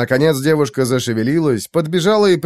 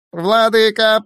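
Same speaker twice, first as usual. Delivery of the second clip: squeaky creature; 9 semitones higher, slower than usual. Acted. Unhappy creature squeaks for its master. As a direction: squeak it out miserably. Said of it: "пропищал несчастный Ассоль".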